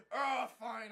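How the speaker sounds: loud exasperated groan of agreement; mock petulant giving in. Bad guy ordered back home, mock petulance. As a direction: give in with an exaggerated huff.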